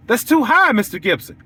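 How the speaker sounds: high, rising "high" like a shocked customer; rising protest. Retold or imitated. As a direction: push the second "high" up in mock disbelief. Client repeats, pitch jumps.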